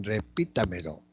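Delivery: teacher's careful "repítamelo" with PI standing out; stress on PI. Shown as a demonstration. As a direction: draw out "repítamelo" to show the stressed second syllable.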